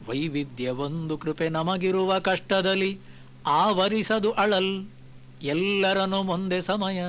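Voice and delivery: slow, measured verse chanting; poem recitation. Acted. Speaker reciting a Kagga verse to listeners, slow and measured. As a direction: recite each line slowly and with weight.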